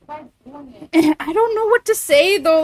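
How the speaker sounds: put-on slow, drawn-out Valley Girl accent. Shown as a demonstration. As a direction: stretch each word like a Valley Girl. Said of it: "you guys making me do the Valley Girl voice".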